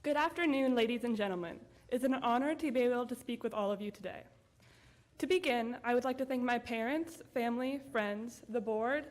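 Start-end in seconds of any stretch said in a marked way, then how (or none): 0.0-3.4 podium speech. Real, not acted. Graduation speech opening.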